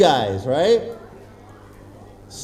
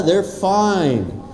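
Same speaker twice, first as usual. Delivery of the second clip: ordinary talk, nothing marked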